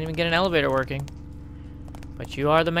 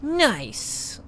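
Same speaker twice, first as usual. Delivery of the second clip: high, whiny put-on punk voice; whiny Steve impression; 9 semitones higher than usual. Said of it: "that's my Steve impression".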